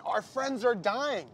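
slow, high, drawn-out alarm; slow emphatic rant. Acted. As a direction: stretch each word for doom. Acted rant on ageing.

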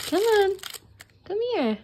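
high, loud call to the puppy. Real, not acted. Owner calling the puppy to come. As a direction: call her over, bright and loud.

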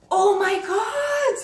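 loud, high, drawn-out squeal; astonished delight. Real, not acted. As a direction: cry out slowly in happy shock. Finds second gift for friend.

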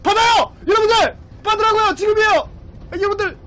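high, loud pleading commands; urgent shout. Real, not acted. Streamer begging viewers to ram right now, urgent shout. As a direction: yell for them to strike now.

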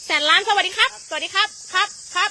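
put-on cheerful echo of a kid's hello; playful echo. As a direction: bounce the greeting back playfully. Echoing a child's greeting.

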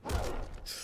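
breathy, soft laugh; helpless laugh. Real, not acted. Player laughing at the defeat, helpless. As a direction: laugh with hardly any voice. Laughs after losing again.

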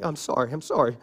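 quick, meek begging; softly grovel to an angry wife; pleading husband. Retold or imitated. Husband begging his wife not to be mad, meek pleading. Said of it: "and I'm like".

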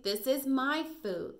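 loud, high and slow, possessive; Rosie. Acted. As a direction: claim the bowl, stretching the words out. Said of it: "said Rosie".

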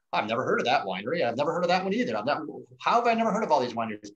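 quick quote of an amazed wine tourist; lightly voiced astonishment; mock surprised visitor. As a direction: imitate a puzzled discoverer, pitch swooping. Voicing surprised visitors discovering wineries.

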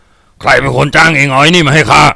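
slow, forceful bellowed question; drawn-out angry bark; barked demand. A narrator's reading. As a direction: snarl the question at the hired men. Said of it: "เลิศเพ่นเข้าหาคนเหล่านั้นพร้อมตะคอกถาม".

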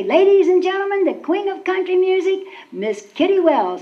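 lightly voiced show announcer; announcer intro. Announcer presents a singer at the state fair, mild emcee style. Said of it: "they'd say".

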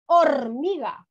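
HORMIGA with the R held in a long trill; strong R. Shown as a demonstration. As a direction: roll out the R in hormiga. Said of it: "o suena fuerte".

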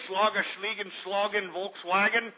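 offhand mock-German jabber; mock German gibberish. Host needles German caller about his country, mocking. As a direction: toss out fake German words as a jibe.

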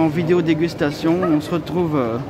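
muffled behind cloth mask; speaking with mouth covered; through a face mask. Real, not acted. Seen 2: White cloth mask covers mouth and nose in nearly all frames.

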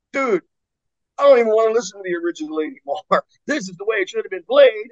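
high, fast, far-off raving metalhead; imitating a metalhead. Metalhead tells the band covers beat originals, mock gushing. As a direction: gush like a converted headbanger.

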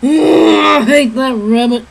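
mildly grumbling cartoon outlaw; Yosemite Sam. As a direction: groan it like a beaten cartoon villain. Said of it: "then usually something bad happens".

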